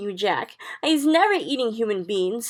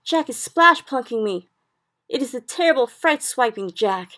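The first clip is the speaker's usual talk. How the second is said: loud, high, frantic wailing; panicked cries at full force; terrified bellowing; 7 semitones higher, 12 dB louder than usual. A narrator's reading. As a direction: bellow each line like a giant trapped in a nightmare. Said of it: "bellowed the Flesh Lump Eater".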